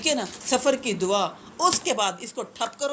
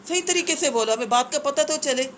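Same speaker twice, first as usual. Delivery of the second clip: impatient telling-off; 5 semitones higher than usual. Retold or imitated. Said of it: "ہم کہتے ہیں".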